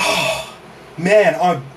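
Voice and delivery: winded, words between breaths. Real, not acted. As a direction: speak while catching your breath. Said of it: "lost my breath from that".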